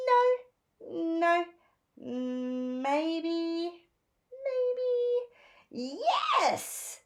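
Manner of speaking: mild back-and-forth dithering; lightly voiced Phoebe dithering. A narrator's reading. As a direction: weigh each option aloud.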